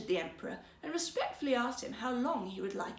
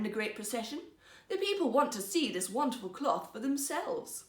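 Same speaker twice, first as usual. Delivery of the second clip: put-on earnest young minister. Young minister urging the emperor before the procession, earnest. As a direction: urge the emperor politely.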